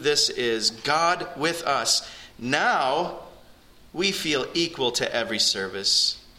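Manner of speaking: slow, deliberate sermon reading, lifted openings falling away. Real, not acted. Preacher reads an older pastor's words to the congregation, slowly and deliberately. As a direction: read it out slowly, with pauses between phrases. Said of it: "I'll read it slow".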